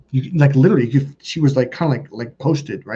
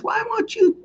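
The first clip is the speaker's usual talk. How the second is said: very high squealed plea; hammed-up squeaky demand; mock frantic wife. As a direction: imitate a wife losing it, voice way up. Wife losing it in acted quarrel.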